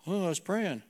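lightly imitated pious disciple; affected prayer voice. Young disciple explaining himself to mentor, mildly affected prayer voice. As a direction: answer in a slightly put-on praying tone. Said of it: "why you change your voice like that".

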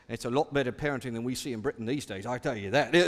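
put-on low, quick grumbling old man; grumpy old man voice. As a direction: grumble it like a cranky retiree. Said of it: "in a very grumpy old man voice".

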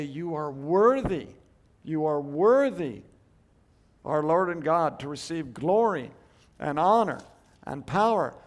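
ringing loud acclamation; proclaimed praise. Acted. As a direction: declare it like a hymn of praise. Quoting heavenly worship song.

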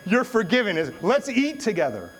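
high, loud, laughing imitation of dad; exuberant absolution. Dad forgiving son at a tense dinner, exuberant. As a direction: break the tension with a big pardon. Dad's retold exasperated forgiveness.

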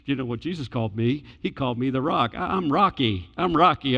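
lightly voiced proud Peter; mock-proud brag, ego puffed up; a touch of boastful Peter. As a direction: Peter bragging about his new nickname, mildly cocky. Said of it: "Peter's ego to say".

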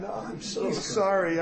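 drawn-out, mock-tearful apology; half-acted weepy protest, slow; retold bawling. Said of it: "I'm bawling".

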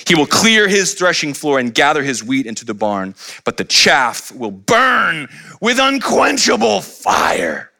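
slow, shouted fire-and-brimstone preaching; Baptist preacher. Acted. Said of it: "Bet he sounded like a Baptist preacher".

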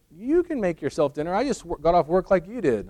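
lightly acted marital exasperation; retold indignant wife. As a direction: play the put-upon wife answering back. Retold wife snaps at husband.

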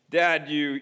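"Dad" pushed out loudly; the kid raising the complaint a notch. Acted. Kid accusing dad, louder.

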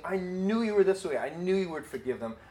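God answering. Retold or imitated. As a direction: turn the words back on him. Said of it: "And God is saying".

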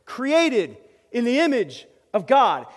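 slow, weighty, reverent delivery; slow solemn emphasis. Acted. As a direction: draw out each word, landing hard on God. Preacher savoring key phrase.

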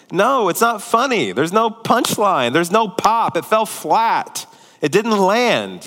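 emphatic, slow thumbs-down on the joke; blunt dismissal. Retold or imitated. Father telling his son the joke failed, bluntly dismissive.

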